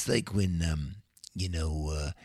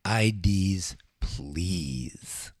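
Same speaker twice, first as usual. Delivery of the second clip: mock doorman; much slower than usual. Doorman asking for fake IDs.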